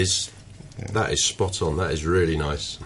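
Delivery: chewing while talking; mouth full. Real, not acted. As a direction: speak round a bite of pie. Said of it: "I shouldn't speak with my mouth full".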